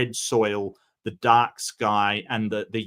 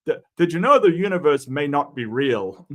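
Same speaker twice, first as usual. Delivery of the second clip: a light mock South African accent, a bit louder; 3 semitones higher, 5 dB louder than usual. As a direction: imitate a talking car with a South African accent. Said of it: "talks in a South African accent going".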